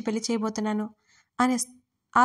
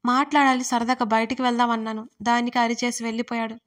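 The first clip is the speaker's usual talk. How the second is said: ordinary delivery, nothing marked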